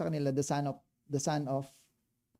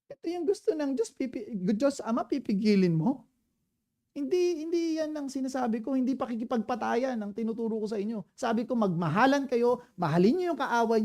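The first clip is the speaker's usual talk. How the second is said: higher, lightly voiced Jesus scolding; a hint of Jesus correcting Peter; Jesus explaining; 5 semitones higher than usual.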